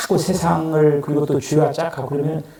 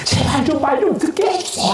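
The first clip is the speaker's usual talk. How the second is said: much higher, begging lament; lamenting plea; 14 semitones higher than usual. Acted. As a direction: implore with exaggerated sighing. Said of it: "하면서 막 탄식하는 거야".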